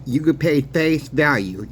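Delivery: ordinary talk, nothing marked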